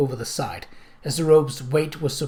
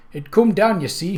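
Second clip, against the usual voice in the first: put-on rustic old man with a nasal twang; lightly voiced country elder, nasal; old man's nasal twang; 5 semitones higher, 4 dB louder than usual. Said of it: "he said in a flat nasal twang".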